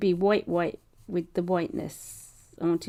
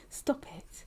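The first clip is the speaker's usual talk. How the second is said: stifled giggle; 6 semitones higher, 9 dB quieter than usual. Real, not acted. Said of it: "Try not to giggle".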